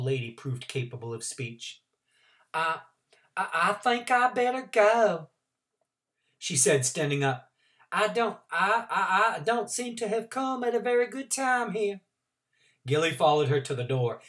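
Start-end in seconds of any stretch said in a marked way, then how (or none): 2.5-12.0 shocked stammer. Acted.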